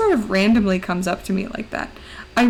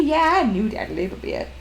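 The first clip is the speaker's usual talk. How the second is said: dog voice. Pretend.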